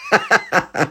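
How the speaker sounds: high burst of giggling; real high-pitched laugh. Real, not acted. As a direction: crack up at your own bit. Laughs at own routine.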